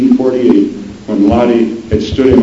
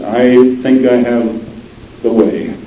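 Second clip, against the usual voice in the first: Stanton; much slower than usual. Acted. Stanton's reply to Lady Hull.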